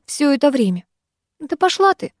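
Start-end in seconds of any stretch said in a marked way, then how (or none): 1.4-2.1 high, curt dismissal; harsh. Acted. Younger sister storming off, harsh and higher. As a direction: cut her off coldly. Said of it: "произнесла я жёстко".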